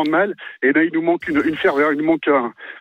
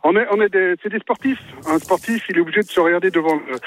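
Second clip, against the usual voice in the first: breathless after running to the phone; panting slightly between words; out of breath. Real, not acted. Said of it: "je suis essoufflé parce que j'ai pris mon téléphone en courant". (essoufflé)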